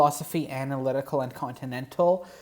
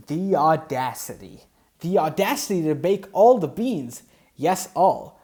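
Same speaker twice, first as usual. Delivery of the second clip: hammed-up shock, rising and louder; mock indignation; 3 semitones higher, 4 dB louder than usual. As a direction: play the outraged reader.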